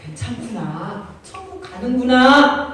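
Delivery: slow, dawning "I see" of credulous listeners; believers taken in. Retold or imitated. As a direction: play a crowd slowly convinced, drawing out the endings. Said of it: "그랬더니 많은 사람이". (그렇구나 하고 깨닫는 듯 길게 끄는 말투)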